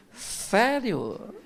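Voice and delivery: sarcastic mock delight; ironic. Husband ironically welcoming his mother-in-law's visit. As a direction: fake enthusiasm that means the opposite. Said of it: "Não seja irônico".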